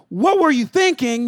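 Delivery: slow, scolding parent's question; slow, exasperated dad scolding his son; scolding father. Retold or imitated. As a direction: drag out the rebuke to a son. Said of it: "Instead of saying".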